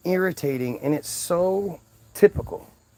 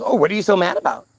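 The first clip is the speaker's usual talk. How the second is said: mimicked taunt; 3 semitones higher, faster than usual. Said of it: "she goes".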